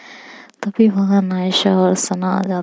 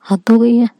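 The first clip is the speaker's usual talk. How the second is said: louder, higher exasperated outburst; fed up; 3 semitones higher, 6 dB louder than usual. Acted. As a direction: throw up your hands in frustration.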